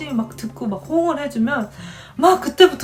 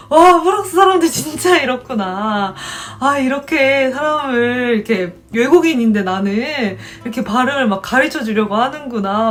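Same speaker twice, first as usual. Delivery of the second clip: amazed; 2 semitones higher, 5 dB louder than usual. Retold or imitated. A student realizing French people love teaching, loudly amazed. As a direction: marvel out loud.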